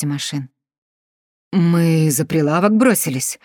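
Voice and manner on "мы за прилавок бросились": gasping, breathless telling; out of breath. Acted. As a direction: speak while short of breath. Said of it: "задыхаясь".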